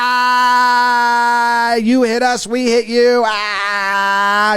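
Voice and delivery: long held fake "ha"; imitated taunting cackle; mock gloating laugh. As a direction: crow with exaggerated glee. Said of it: "Thought it was hilarious".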